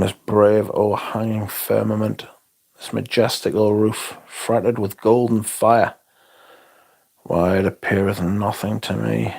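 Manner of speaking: understated theatrical recital; reciting Hamlet. Pretend. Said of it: "calm down, Hamlet".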